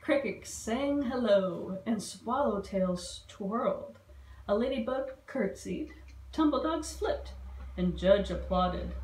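a lightly voiced read-aloud to children; rhyming storybook reading. A narrator's reading. Librarian reading the bug story to kids, gentle read-aloud. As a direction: read the rhymes to the little ones. Reads picture book aloud.

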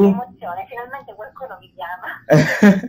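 tinny phone-line sound; on speakerphone. Real, not acted. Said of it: "so ancora fare le chiamate in viva voce".

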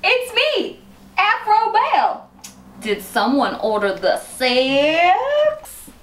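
high, slow, hammed-up seductive entrance; sultry character voice. Wife playing a character for her husband, hammed-up sultry voice. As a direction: vamp it up as a sexy persona.

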